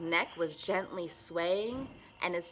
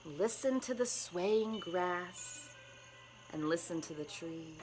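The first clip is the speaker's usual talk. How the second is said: soft, gentle; 5 dB quieter than usual. Acted. Cricket's soft speech.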